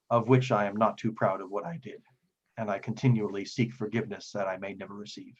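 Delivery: lightly acted solemn confession; measured, formal phrases, pausing between thoughts; remorseful devout priest.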